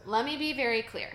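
firm classroom teacher voice, lightly done. Shown as a demonstration. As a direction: lay it down like a strict teacher. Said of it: "I'm about to turn on my teacher voice right here".

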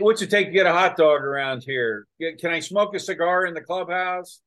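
lightly mocked pushy American tourist; mildly hammed-up New York visitor; obnoxious tourist. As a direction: gripe like a brash tourist. Mimicking ugly American tourists.

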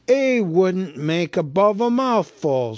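loud, dismissive troll. A narrator's reading. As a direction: scoff like a full troll. William scoffs.

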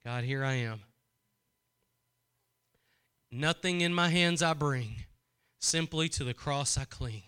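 a lightly voiced whispered-down prayer of surrender; humble prayer. Shown as a demonstration. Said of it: "You know what submission is?".

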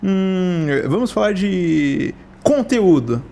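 very slow, drawn-out host intro with a laugh; mock intro drawl. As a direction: stretch every word like a lazy host. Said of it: "Eu imito ele".

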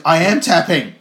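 loud, high mock protest; hammed-up desperate yell; acted desperate shout. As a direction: shout it like a wrestler giving up. Voicing wrestler desperately giving up.

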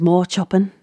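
light attempt at a Scouse accent; imitated Scouse accent. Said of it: "I'm loving the, the Scouse accent".

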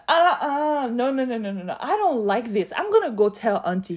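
put-on a kid loudly refusing in public; loud protest. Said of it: "I said so loud in front of everybody".

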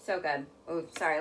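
talking while chewing; words round a bite of food; mouth full. Real, not acted. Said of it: "Let me finish chewing".

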